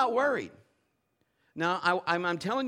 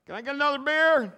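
put-on raised, louder drunk guy's voice; tipsy passenger; 8 semitones higher, 6 dB louder than usual. Drunk passenger calling for beer, raised and louder. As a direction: ask for a beer like a half-drunk man. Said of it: "He is just like".

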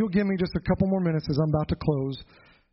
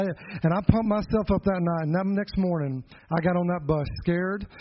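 ordinary talk

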